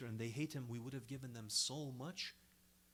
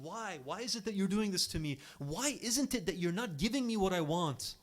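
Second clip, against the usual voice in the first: loud, raised pleading whine; louder and higher, an upset child's complaint; retold screaming child; 4 semitones higher, 5 dB louder than usual. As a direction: rail at the parents like a furious child.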